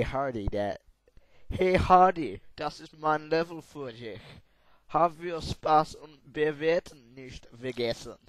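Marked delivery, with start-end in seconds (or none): 1.5-8.2 put-on German accent. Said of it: "I can't do a high voice German accent".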